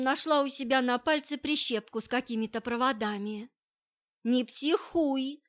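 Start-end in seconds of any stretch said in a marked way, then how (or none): 4.2-5.4 slow, calming request; peaceable plea. A narrator's reading. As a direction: talk her down gently and slowly. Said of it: "попросил он меня весьма миролюбиво".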